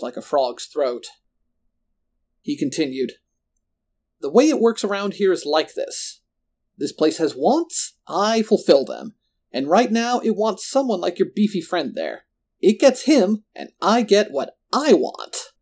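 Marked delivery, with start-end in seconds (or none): 4.2-15.5 raised, emphatic villain voice; gloating villain. A narrator's reading. Roland explaining the bargain to his captives, gloating. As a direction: lay down the law, higher, leaning on words.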